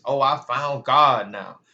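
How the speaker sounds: slow, mock-holy claim of faith; mock pious. Ex claiming he has found God, mock pious. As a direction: ham up a fake conversion. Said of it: "acting religious".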